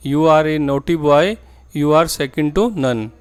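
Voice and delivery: very slow and clearly spaced, word by word; slow model sentence. Shown as a demonstration. Teacher to Hindi-speaking students, modelling the English sentence slowly. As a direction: spell the sentence out slowly for learners. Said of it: "इस sentence को आप बोलते हैं".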